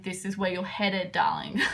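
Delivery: lightly voiced British "darling"; British accent. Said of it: "It's like some British person".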